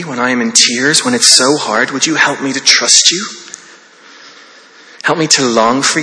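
a mild, earnest prayer to God, modelled for the church; sincere prayer. Shown as a demonstration. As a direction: pray it humbly, as if alone with God. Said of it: "you could say something to God a bit like this".

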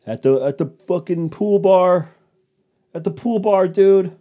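loud, high party whoop, stretched out; hyped pool-bar partier. Retold or imitated. People posting stories from the rooftop pool bar, hyped party yell. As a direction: brag like a partier filming a story. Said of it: "stories where they're just like".

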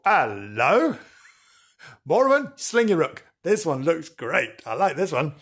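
smitten princess. Acted. Princess admiring the knight.

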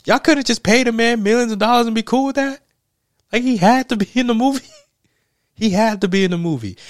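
high, loud, laughing incredulity; can't get over it, laugh through the outrage; incredulous high-pitched cracking up; laughing in disbelief. Real, not acted. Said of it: "I'm just over here just laughing".

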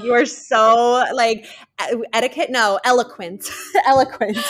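giggling through a mock compliment; laughing mock praise. Cohost teasing her friend for saying connoisseur, laughing. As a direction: laugh while gushing over her eloquence. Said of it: "I'm like, laughing".

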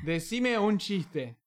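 slow, quiet request to a phone; slow clear command. Real, not acted. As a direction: speak slowly so the phone understands. Dictando una orden al celular. (dictado lento al celular)

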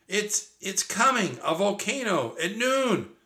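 high, breathless alarm; frightened warning to Annie; panicked. A narrator's reading. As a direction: blurt it out in fear. Jack panics about volcano.

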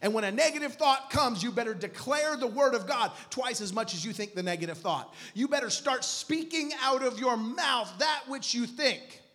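emphatic, projected sermon delivery; preaching scripture. Acted. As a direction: declare the verse to the congregation.

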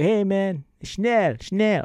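snapping fake-German commands, half-joking; mock German barking. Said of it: "this German chef".

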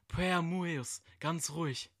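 hohe, lockende Figurenstimme; verführerische Gestalt. Acted. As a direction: ruf ihn mit hoher, fremder Stimme zu dir. (hohe, lockende Stimme einer dunklen Gestalt)

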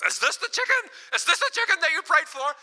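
loud, high-pitched incredulous demand; retold yelling. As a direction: act out his excited yelling. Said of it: "he's yelling".

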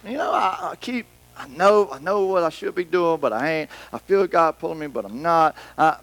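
halting, stammered indecision; on the fence. Retold or imitated. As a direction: mimic someone who can't commit. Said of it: "They're just kinda on the fence".

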